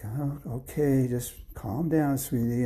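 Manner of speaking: slow, reassuring comfort; gently calm a frightened child; soothing father. Acted.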